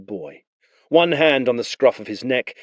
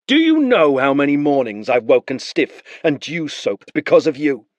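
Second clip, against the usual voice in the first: a hint of a sneering captain; lightly voiced resentful jab; bitter soldier; 5 semitones higher, 4 dB louder than usual. Blue Cloak taunts the beaten young man, mild bitterness.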